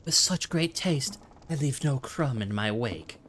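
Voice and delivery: a hint of a pompous moth boasting; moth's voice. Reads the moth's game line.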